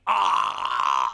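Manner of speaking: shout. Acted. Pirate game call and response.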